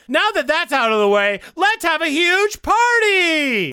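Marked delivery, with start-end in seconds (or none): 1.5-3.7 excited. Acted. Party announcement.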